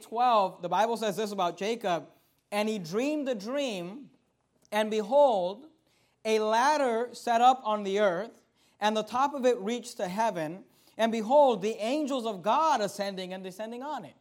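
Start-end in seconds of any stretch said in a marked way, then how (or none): 2.5-14.1 scripture reading. Acted. Preacher reads the ladder dream to the congregation, solemn. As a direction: read the Bible passage with weight.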